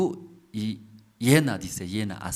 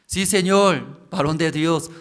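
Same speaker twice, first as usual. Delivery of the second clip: pleading widow; 5 semitones higher, 6 dB louder than usual. Acted. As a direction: plead humbly but audibly. Widow answers the prophet.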